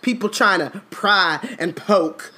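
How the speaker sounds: high, loud, huffy elf voice; mock-indignant elf. Reading Winky's drunk outburst at Harry, high and loud. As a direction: puff up and scold like an offended elf. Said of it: "said Dobby angrily".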